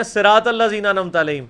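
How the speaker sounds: صراط الذین with thin s and light t, run through quickly; everyday Urdu z in الذین, no heavy letters in صراط; light mispronounced recitation. Shown as a demonstration. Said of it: "تو صراط الذین تو نہیں ہے وہ".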